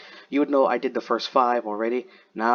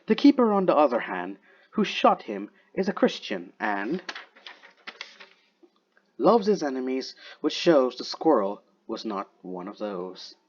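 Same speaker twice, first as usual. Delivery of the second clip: poem reading. Acted. Reads Wolfe's poem aloud.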